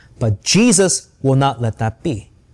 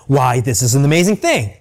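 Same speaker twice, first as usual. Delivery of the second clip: dry, mocking mock amazement; mocking sarcasm; 4 semitones lower than usual. Blind man mocking the Pharisees, sarcastic mock amazement. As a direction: fake wonder to needle the Pharisees. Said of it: "that's the kind of tone he used".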